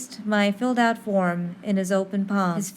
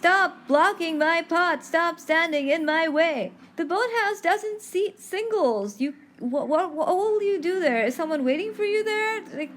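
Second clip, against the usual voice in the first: much higher, huffy voice; mock indignant character; 6 semitones higher than usual. Teller acts a woman blocking her path at the boathouse, higher and huffy. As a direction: play a flustered, indignant lady.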